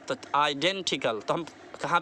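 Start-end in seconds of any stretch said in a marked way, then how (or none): 0.4-1.2 आइडेंटिकल, slow, weight on डें; stress on DEN. Shown as a demonstration. Teacher asking where stress goes, आइडेंटिकल stressed on डें. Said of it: "डेन पे stress देंगे".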